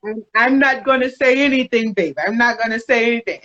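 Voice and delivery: lightly imitated Jamaican accent; bad Jamaican accent. Wife quoting her reluctant husband, badly faked Jamaican accent. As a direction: have a rough go at a Jamaican accent. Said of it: "that's my really bad Jamaican accent".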